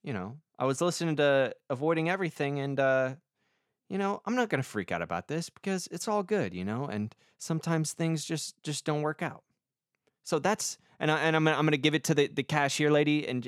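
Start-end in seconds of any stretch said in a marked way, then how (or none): 0.0-9.4 mellowed-out lottery guy. Pretend. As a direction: play him calm and converted. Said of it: "He's like".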